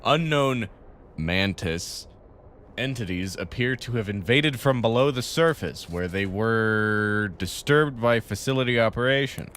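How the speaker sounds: formal corporate briefing read; measured game narration; briefing read-aloud. Acted. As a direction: read it out like an official company notice.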